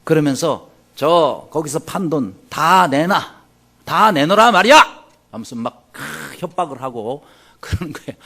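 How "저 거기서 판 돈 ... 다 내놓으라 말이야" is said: rough threatening demand, building loud; mock gangster threat rising to a shout. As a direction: bark it like a thug shaking them down.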